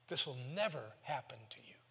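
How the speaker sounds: breathy whisper of protest; a hushed whisper, afraid to say it aloud. Retold or imitated. Peter protesting Jesus' coming death.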